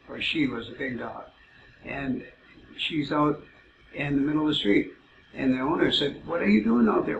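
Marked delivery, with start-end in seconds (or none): 6.2-7.2 calling out. Retold or imitated. Owner calling to dog in road.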